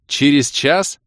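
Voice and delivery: loud, rising «час» in disbelief; he can't believe it; surprised question. Acted. Ros surprised.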